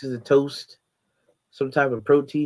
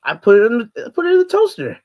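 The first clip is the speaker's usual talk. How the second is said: emphatic loud; 9 semitones higher, 10 dB louder, faster than usual. Real, not acted. Insisting on toaster.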